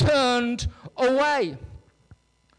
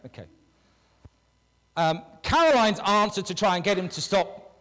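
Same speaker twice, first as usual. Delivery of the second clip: ordinary talk, nothing marked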